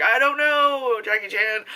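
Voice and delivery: high, drawn-out mock Irish accent; Pierce Brosnan's Irish accent. Official denying knowledge to a grieving father, mock Irish accent. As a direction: plead ignorance in a comic Irish accent. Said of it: "That's Pierce Brosnan's accent".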